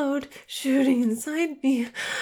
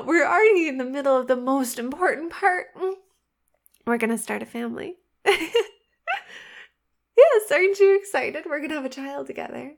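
possessive lover; 4 dB louder than usual. Acted. Obsessive lover role.

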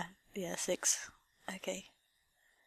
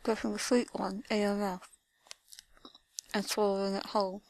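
slow, breathy seductive whisper; 4 dB quieter than usual. Acted. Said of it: "Slowly and seductively".

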